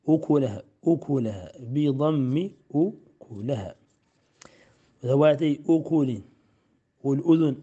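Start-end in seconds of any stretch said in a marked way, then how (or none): 0.1-3.7 "أكلها" said ukulaha, opening with u; damma on the hamza. Shown as a demonstration. Teacher repeats "أكلها" with damma for the student. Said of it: "بضم الهمزة".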